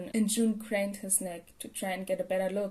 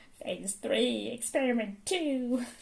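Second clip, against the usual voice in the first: frenzied, manic mad doctor character voice; 3 semitones higher than usual. Trying out a voice for the doctor while reading: manic Mineta voice. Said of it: "* manic Mineta voice *".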